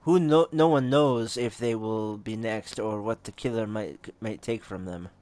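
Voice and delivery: put-on measured, approximate Russian accent; a loosely done Russian accent. Game character explaining her stake in the murders, Russian accent. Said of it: "want to give her a Russian accent".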